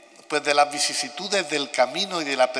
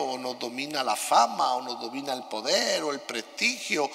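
cathedral echo. Real, not acted. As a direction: voice ringing in a big stone church. Homily recorded in a large church.

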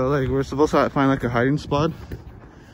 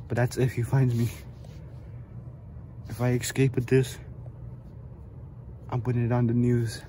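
horror movie victim. Pretend. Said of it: "pretend like I'm in a horror movie".

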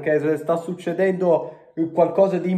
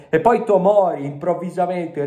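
excited outburst; 4 semitones higher than usual. Real, not acted. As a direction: shout the scorer's name. Recalling Tomori's goal.

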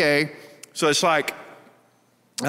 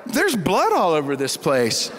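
hushed dread; slower than usual. Retold or imitated. Boy discovering pig head.

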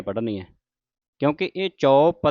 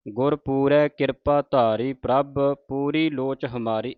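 measured, reverent reading of scripture; slow devotional reading; slow recitation; slower than usual. Shown as a demonstration. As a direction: recite each word slowly and deliberately. Reciting Gurbani lines slowly.

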